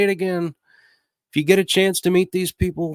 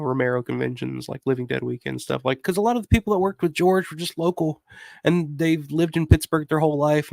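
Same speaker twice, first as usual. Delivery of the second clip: normal talking voice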